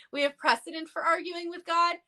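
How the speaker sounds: quoting with triumphant emphasis; emphatic quote. Retold or imitated. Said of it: "Doctor Huju in the comments said".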